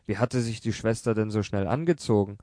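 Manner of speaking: ordinary delivery, nothing marked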